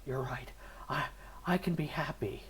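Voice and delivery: whispered resolve. Retold or imitated. Husband giving in to his wife, soft whisper. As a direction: breathe it as a calmed man. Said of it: "He's like".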